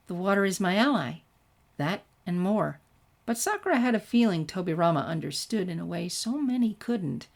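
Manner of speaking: even storytelling read with light character voices; story narration. A narrator's reading. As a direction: read the tale to your listeners. Reads fan fiction aloud.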